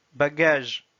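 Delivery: "Bagage" read as Russian, falling; Russian pronunciation. Shown as a demonstration. Teacher reading words with learners, "Bagage" in Russian. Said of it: "s'entraîner à lire les mots".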